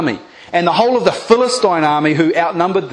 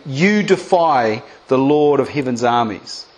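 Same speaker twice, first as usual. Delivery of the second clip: defiant declaration; 6 semitones lower than usual. Pretend. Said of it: "speak to it like it's Goliath".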